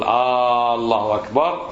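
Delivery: الله أكبر opened with a long drawn "Aaa"; forbidden long alif. Shown as a demonstration. Teacher showing what not to say, long alif. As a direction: stretch the first vowel before the l of الله. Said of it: "ما تقول".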